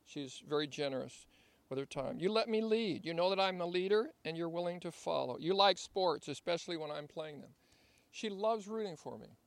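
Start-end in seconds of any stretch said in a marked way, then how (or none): 2.2-7.5 reading a love letter. Shown as a demonstration. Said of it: "as I read this love letter".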